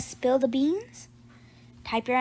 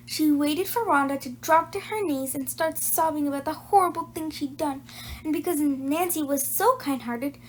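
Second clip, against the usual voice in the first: lively read-aloud storytelling; story narration. A narrator's reading. Reading Nancy Clancy to young listeners, bright storytelling. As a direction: read it like a children's chapter book. Reads a chapter book aloud.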